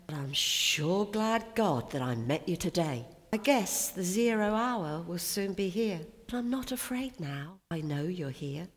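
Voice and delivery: soldier's prayer read with feeling; poem reading. Acted. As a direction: read it like a young gunner talking to God. Reads soldier's poem aloud.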